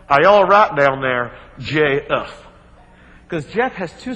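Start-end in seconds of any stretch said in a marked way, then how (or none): 0.1-2.5 called down. Retold or imitated. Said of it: "you hear McAndrews yell down".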